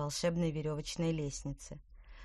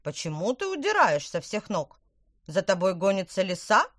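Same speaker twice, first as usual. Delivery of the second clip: hen voice; 2 semitones higher, 7 dB louder than usual. Acted. Hen questions witch.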